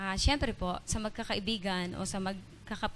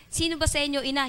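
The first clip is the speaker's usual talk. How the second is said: raised, louder demanding who the mother is; a mock challenge, pitched up and loud; retold loud question; 5 semitones higher, 4 dB louder, faster than usual. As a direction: call it out sharply, imitating them.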